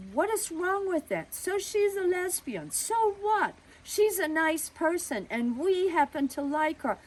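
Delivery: father blowing up at the neighbor; explosive anger. Retold or imitated. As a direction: let the anger burst out at full force. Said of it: "he was just gonna explode".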